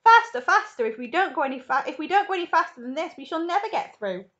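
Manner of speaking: loud, high, hurried urging; urgent cry. A narrator's reading. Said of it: "cried Mister Wonka".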